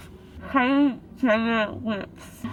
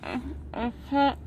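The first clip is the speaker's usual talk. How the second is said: numb face, slurred speech; talking through a numb jaw; ice pack on jaw; 4 dB quieter than usual. Real, not acted. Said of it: "I can't feel my face".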